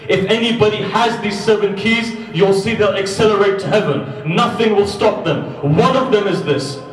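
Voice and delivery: high, loud preaching swell; preacher building to a peak; rising preaching. Real, not acted. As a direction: lift the crowd with fervour. Preacher rising to full force.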